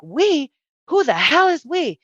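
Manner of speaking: high-pitched incredulous question; baffled disbelief. Retold or imitated. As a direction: ask it stunned, pitch jumping up. Repeats baffled reply to voices.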